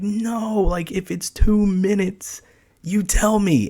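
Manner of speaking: high, softened mock exasperation; exasperated scolding. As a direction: act out a panicked telling-off, drawn out. Retold panicked scolding of wife.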